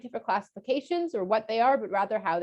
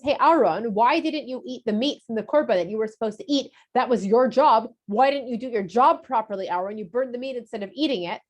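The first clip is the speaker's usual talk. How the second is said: louder, sharp scolding questions; scolding yell; 4 dB louder than usual. Acted. Moshe scolds Aaron over the burnt meat, loud and reproachful. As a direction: tell him off for not doing his job. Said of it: "I'm sorry for yelling at you".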